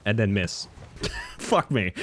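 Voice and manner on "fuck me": ordinary delivery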